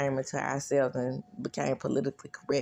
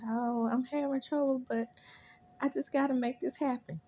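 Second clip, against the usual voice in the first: mock teary voice; 8 semitones higher, 3 dB quieter than usual. Voicing teary Janine.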